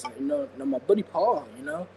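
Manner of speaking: attempted wrestler impression; a light, casual take on a wrestler's voice; Kevin Nash. Shown as a demonstration. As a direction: loose impression with easygoing you-knows. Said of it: "gonna try my, uh, Kevin Nash voice".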